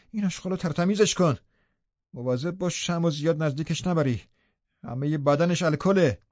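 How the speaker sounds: a touch of a snarl, barking orders; lightly voiced angry master ordering the servant; mild growl. Heathcliff snapping orders at Joseph over the body, mild growl. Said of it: "هیتکلیف غرید".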